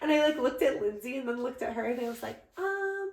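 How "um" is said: high, drawn-out hesitant squeak; high-pitched reluctance. Retold or imitated. Bride rejecting the bouquet to Lindsay, high-pitched and hesitant. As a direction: let the voice climb as you reluctantly object. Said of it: "my voice just kept getting".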